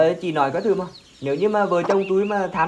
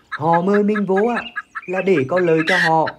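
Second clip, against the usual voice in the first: raised, scornful husband's voice; scolding; 3 dB louder than usual. Acted. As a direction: snap at her for trusting them. Husband scolds wife, quarrel.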